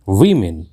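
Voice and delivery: वीमेन said as "VI-min"; correct pronunciation. Shown as a demonstration. Teacher gives learners the correct word, carefully pronounced. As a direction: say वीमेन with i in both syllables. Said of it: "इसका सही उच्चारण है".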